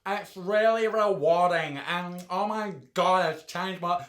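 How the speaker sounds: lightly voiced gushing hospitality worker; mocking a gushing hospitality worker. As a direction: parody someone who gushes about a rewarding job. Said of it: "who talks like this?".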